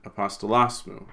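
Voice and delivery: "apostolos mu" as one word, "mu" unstressed; no pause and no stress on "mu" after "apostolos"; unaccented enclitic. Shown as a demonstration. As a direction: let "mu" lean on the end of "apostolos". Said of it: "mu won't get an accent".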